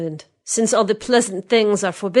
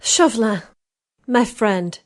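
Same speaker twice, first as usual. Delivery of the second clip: sigh of satisfaction; 4 semitones higher, slower than usual. A narrator's reading. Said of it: "with a pretty little sigh of satisfaction".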